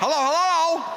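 calling out high and loud.

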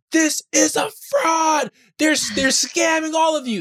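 very high, freaked-out screaming, flipping out. Retelling a man's outburst over a price at the front of the line: imitating someone screaming. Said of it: "He starts screaming".

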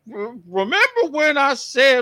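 put-on slow voice sounding like an elderly Southern woman. Podcast host setting up a last bit for a co-host, old Southern Black woman voice. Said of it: "you sounded like an old Southern black woman".

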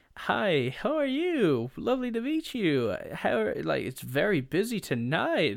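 loud, swooping, fake-nice polite voice. Imitating the speaker's mother calling over a waiter: mock pseudo-nice voice. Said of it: "in her pseudo nice voice and goes".

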